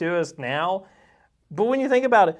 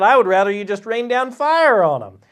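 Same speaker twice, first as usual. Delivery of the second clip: a little higher and louder, balking like a stubborn prophet; defiant Jonah; 3 semitones higher, 5 dB louder than usual. Retold or imitated. Jonah refusing God's command, mildly voiced defiance. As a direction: toss off a refusal like a sulky prophet.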